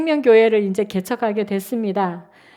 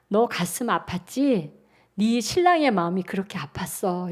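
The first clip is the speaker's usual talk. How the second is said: gentle voice of God; 4 semitones lower, 5 dB quieter than usual. Retold or imitated.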